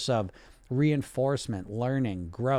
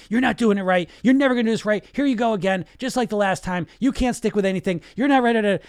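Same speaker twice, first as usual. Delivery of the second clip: loud, high scolding inner critic voice; a nagging parent voice yelling higher and louder; harsh inner critic; 8 semitones higher, 6 dB louder than usual. Retold or imitated. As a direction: yell it down at yourself like a harsh disciplinarian. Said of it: "this other voice comes in and just makes you feel terrible".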